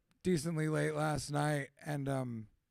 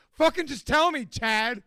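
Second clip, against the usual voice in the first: higher, louder mock-exasperated snap; impatient demand; 6 semitones higher, 9 dB louder than usual. Friend pressing Chad to spill it, mock exasperation. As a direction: play it as fed up but joking. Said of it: "I'm like".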